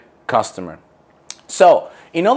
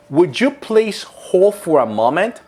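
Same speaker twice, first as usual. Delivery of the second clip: customer service voice; 4 semitones higher than usual. Shown as a demonstration. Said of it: "Expression number one".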